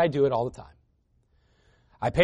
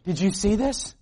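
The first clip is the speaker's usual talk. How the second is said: anxious grandmother; 5 semitones higher than usual. Retold or imitated. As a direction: imitate a worried grandma pestering Grandpa. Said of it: "she'd be like".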